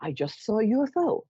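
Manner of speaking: lightly voiced very reasonable caller; a hint of a trained stage voice, measured; reporting a UFO to the police in a lightly reasonable voice; theater-trained voice. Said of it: "sort of theater-trained voice".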